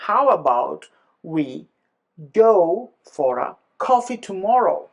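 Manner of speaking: "how about", "we", "go" set apart by pauses, then "coffee tomorrow" stressed; sentence stress broken down. Shown as a demonstration. Teacher building up the example, pausing to stress content words. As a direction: piece by piece, landing on "go" and "coffee". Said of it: "So what we should do".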